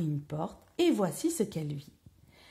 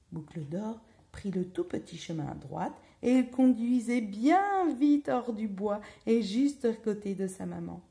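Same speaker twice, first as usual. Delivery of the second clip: usual speaking voice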